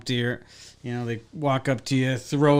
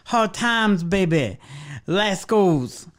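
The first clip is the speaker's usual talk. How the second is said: mock tough waitress; 6 semitones higher, slower than usual.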